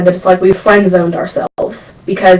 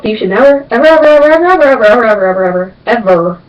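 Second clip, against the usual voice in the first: emphatic never ever; 3 semitones higher than usual. Acted. Warning viewers never to take her fashion advice, emphatic. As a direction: pile on the evers for comic emphasis.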